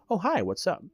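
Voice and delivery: lightly voiced bright high greeting; cheery hello. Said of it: "he's like".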